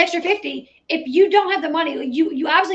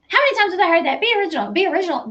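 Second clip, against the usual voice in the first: higher-pitched mocking echo of a retort; mock indignation; 4 semitones higher, much faster than usual. Commentator quoting Janelle's retort to her mother, mock indignant. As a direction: throw the retort back mockingly.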